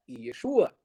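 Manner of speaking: "Yeshua" said as "yeh-SHOO-ah"; "Yeshua" with a Y opening and stressed SHU; Hebrew pronunciation. Shown as a demonstration. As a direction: sound out "Yeshua" in three syllables, yeh-SHOO-ah. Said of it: "E no hebraico é".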